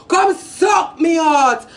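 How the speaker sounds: mocking the rival with a slow yell; slow taunting shout. Real, not acted. Heated diss rant, shouting.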